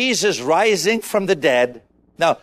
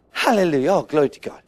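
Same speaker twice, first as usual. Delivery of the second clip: low, half-hearted praise sinking lower; mock indifference; 5 semitones lower, faster than usual. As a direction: parody an unmoved churchgoer. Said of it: "Like a lump on a rock".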